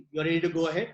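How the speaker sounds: lightly deepened instruction. Shown as a demonstration. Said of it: "The voice is becoming deeper".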